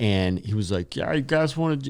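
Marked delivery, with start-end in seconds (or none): 1.0-1.9 high-pitched puppet frog voice. Retelling what a guy said to the speaker and friends, in a Kermit the Frog voice. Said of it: "he had talk like Kermit the Frog".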